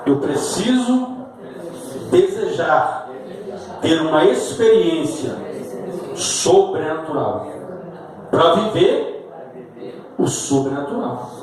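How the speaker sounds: slow phrase by phrase, with pauses; measured call-and-response delivery; repeat after me. Shown as a demonstration. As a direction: lead the congregation in repeating each phrase. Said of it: "repita comigo".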